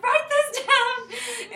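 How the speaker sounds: high, loud, slow drawn-out order; excited command. Retold or imitated. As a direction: stretch it out like a big announcement. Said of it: "Alicia was like".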